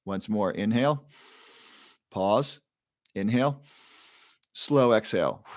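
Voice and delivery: measured breathing-coach cues with long pauses; guided breathing. Shown as a demonstration. Coach leading viewers through a bedtime breathing exercise, guided breathing.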